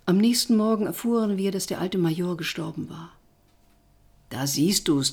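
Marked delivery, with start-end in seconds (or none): 4.3-5.1 low, smug told-you-so; triumphant. Acted. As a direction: gloat over being right. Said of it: "triumphierte mein Freund". (triumphierend, selbstzufrieden)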